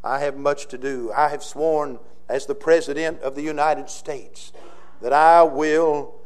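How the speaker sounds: solemn oath, unhurried and grave; George Washington speech. Acted. Pastor previews Washington's oath for the congregation, lightly voiced. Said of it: "And then George Washington says".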